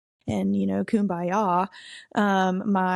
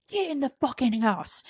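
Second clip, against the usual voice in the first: imitated mad friend; 5 semitones higher than usual. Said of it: "she's terrifying when she's mad".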